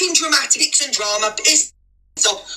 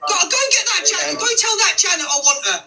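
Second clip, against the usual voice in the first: calling out; 5 semitones higher, faster than usual. Real, not acted. Calling out for Janet.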